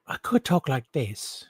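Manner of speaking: slow, lightly put-on voice; a hint of a changed voice, slowly; different voice. Shown as a demonstration. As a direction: draw it out in a slightly altered voice. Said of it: "have my voice a little bit different".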